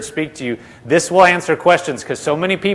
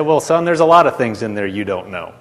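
lower, kindly tone; sweet, gentle; 5 semitones lower than usual. Retold or imitated. Jesus answering Brother Hagin, retold with gentle sweetness. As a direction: gently let them down, as to a son. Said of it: "smiled real sweetly and said".

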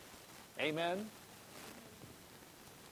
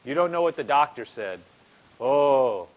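whiny complaint; 3 semitones lower, 4 dB louder than usual. Retold or imitated. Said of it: "you're reverencing, you're saying".

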